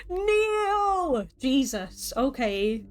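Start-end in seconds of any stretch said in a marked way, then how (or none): 0.1-1.3 even higher, loud royal command; a furious queen's order, full force; commanding queen shout. Acted. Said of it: "the single word that falls from her lips".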